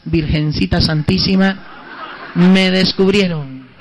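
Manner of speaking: slow, laughing private exclamation; slow amused aside; laughing to himself. Retold or imitated. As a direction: chuckle through a caught-out prayer. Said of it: "Dije yo entre mí nomás".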